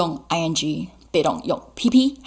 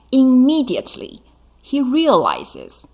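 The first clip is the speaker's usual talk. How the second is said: Immediately called out louder and higher; projected read; 6 semitones higher, 3 dB louder than usual. Shown as a demonstration. Teacher projects Immediately to students, high and loud. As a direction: announce Immediately to the class. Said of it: "所以你要念得还蛮快的".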